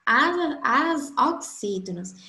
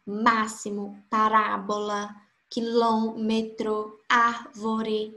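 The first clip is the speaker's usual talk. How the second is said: máximo, parábola, quilômetro, árvore with MÁ, RÁ, LÔ, ÁR stressed; stress on antepenultimate; slower than usual. Shown as a demonstration. Teacher reads examples aloud, third-last syllable stressed in máximo, parábola, quilômetro, árvore. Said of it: "possuem a sílaba tônica na antepenúltima".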